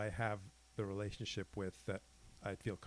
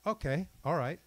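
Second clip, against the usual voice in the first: raised, higher-pitched mock boxer; retold out-loud warning; 6 semitones higher, 5 dB louder than usual. Boxer to the novice who just hit him, out loud and higher. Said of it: "He'd say that out loud".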